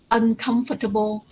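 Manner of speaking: uncomfortable with a weak, unstressed -table; reduced table ending. Shown as a demonstration. Teacher modelling for a student, uncomfortable with reduced ending. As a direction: stress COM in uncomfortable, let the ending shrink. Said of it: "don't say table".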